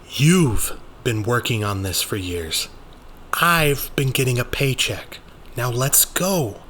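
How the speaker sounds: lightly voiced Rainey, fed up; impatient Rainey. Rainey telling Daniel to go, impatient.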